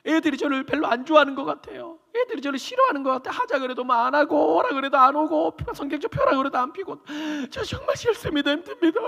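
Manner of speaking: high, pleading voice of a crying elder; mock weepy lament to the pastor; imitated tearful complaint. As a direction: plead as if in tears. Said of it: "그러면서 엄청 우시더라고요".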